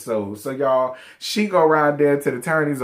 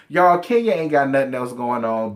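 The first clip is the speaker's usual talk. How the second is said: ordinary delivery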